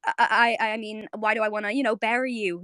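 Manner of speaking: imitated stammer, then hurried words; flustered backtracking. Marceline catching a glimpse of Bubblegum, stammering. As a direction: stumble over the start, then rush on. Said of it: "she completely changes her tone".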